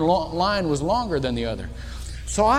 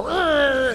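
tough grunt; 6 semitones higher than usual. Retold or imitated. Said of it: "catch himself and go".

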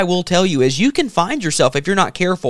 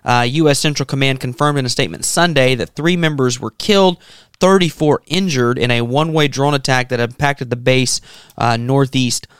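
measured, serious news-reading delivery; 4 semitones lower than usual. Real, not acted. Host turns to more serious news from Jordan, news read. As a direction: read the report evenly, like a radio bulletin.

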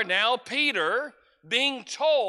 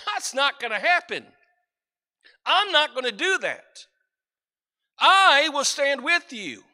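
louder, higher, insistent vow of loyalty; Peter's proud vow; 5 semitones higher, 6 dB louder than usual. Acted. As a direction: make Peter's boast swell with certainty. Peter boasting his loyalty.

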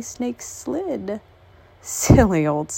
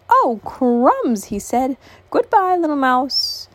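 scared snake; 5 semitones higher, 4 dB louder than usual. Acted. Snake flees in fright.

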